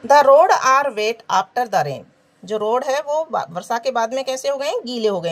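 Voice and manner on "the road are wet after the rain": very slow, word by word; slow, deliberate classroom reading; slow dictation. Shown as a demonstration. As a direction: read it out slowly for the class. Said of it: "reads exercise sentence aloud".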